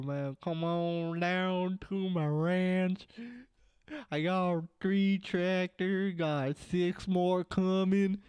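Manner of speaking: slow, hammed-up Southern redneck drawl; shitty redneck accent. Canadian mocking Americans, slow hammed-up redneck accent. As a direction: lay on a bad redneck accent to mock Americans. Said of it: "I do a shitty redneck accent".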